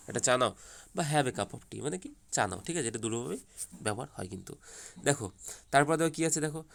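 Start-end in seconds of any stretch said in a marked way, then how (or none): 1.1-1.8 "Have a cup of tea" said at normal volume as a kind offer; gentle offer. Shown as a demonstration. Teacher showing the tea line as a friendly invitation. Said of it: "দুরকমভাবে কিন্তু সেন্সে ব্যবহার".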